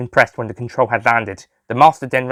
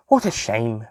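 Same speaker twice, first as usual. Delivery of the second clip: sighing; slower than usual. Acted. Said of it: "Bridget sighed".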